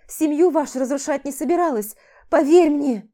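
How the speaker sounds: guilty anguish. Acted. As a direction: pour out shame and guilt. Friend's tearful guilty confession.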